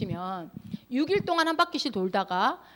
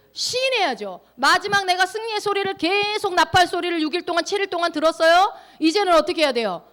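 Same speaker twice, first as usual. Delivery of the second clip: high, insistent preaching voice; full-force preaching; 5 semitones higher, 5 dB louder than usual. Real, not acted. Preacher urging believers to confess out loud, full-force preaching. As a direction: press the congregation with rising force.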